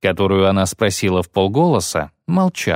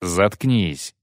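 1 wincing; 3 semitones lower than usual. Acted. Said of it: "поморщился Гиселер".

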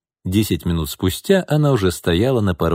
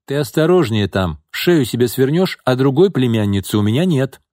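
higher-pitched, anxious caution; worried warning; 6 semitones higher, 3 dB louder than usual. A narrator's reading. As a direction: warn the child off with a touch of alarm. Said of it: "забеспокоился Антон". (обеспокоенно предостерегая)

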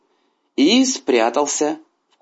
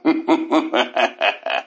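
gloating tiger laugh. A narrator's reading. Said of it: "начал смеяться".

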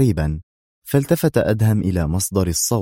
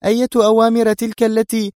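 much higher, louder woman's angry cry; angry outcry; 14 semitones higher, 4 dB louder than usual. A narrator's reading. Mona yells at the lieutenant about the orders, furious. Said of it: "صاحت في غضب".

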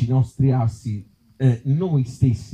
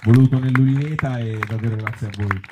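warm public thanks; 3 semitones higher, 3 dB louder than usual. Real, not acted. Closing thanks to the audience.

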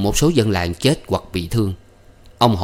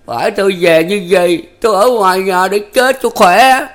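high, loud, wailing lament; rên rỉ thảm thiết; moaning lament; 11 semitones higher, 7 dB louder than usual. A narrator's reading. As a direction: moan out his despair. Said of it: "rên rỉ".

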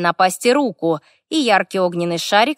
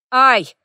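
quick, higher, louder "ow"; yelp of pain; 5 semitones higher, 5 dB louder than usual. A narrator's reading. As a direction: yelp as if stung by a spark. Elf zapped by a spark. (вскрик от боли)

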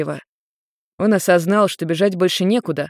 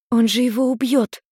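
higher alarmed cry; frightened; 5 semitones higher than usual. A narrator's reading. Maimi afraid Ian will kill him, high alarmed. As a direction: gasp it out in fear. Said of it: "испугалась Майми".

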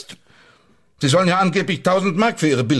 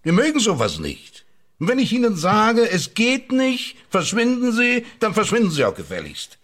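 higher, slowed and emphatic; angry dismissal; 6 semitones higher than usual. Acted. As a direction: order him out sharply. Boss angrily dismissing his employee.

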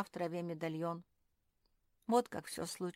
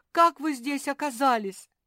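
high, very loud astonished question; loud, thrilled surprise; amazed exclamation; 7 semitones higher, 11 dB louder than usual. A narrator's reading. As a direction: ask in excited disbelief. Son astonished to see parents.

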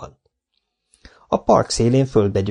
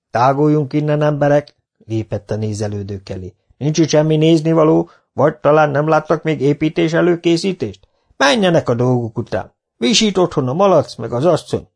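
high, swaggering crowd dispersal; cocky young foreman; 5 semitones higher, 3 dB louder than usual. Acted. Garai Micu shooing the onlookers, swaggering and high. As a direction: order the onlookers off, smugly.

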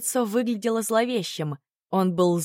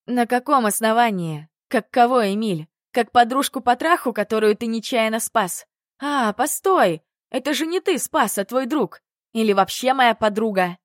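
angry outburst; 3 semitones higher, 5 dB louder than usual. Acted. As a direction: throw it at him, voice rising in fury. Heroine blows up at Emil.

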